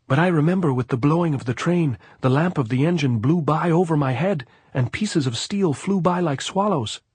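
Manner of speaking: high, loud, animated gypsy voice; excited gypsy. A narrator's reading. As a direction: tell it high and loud, reliving the blast. Gypsy recalls the train.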